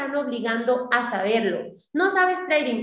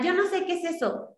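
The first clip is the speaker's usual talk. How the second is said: lazy excuse voice; 5 semitones higher than usual. Retold or imitated. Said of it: "¿Qué es pereza mental?".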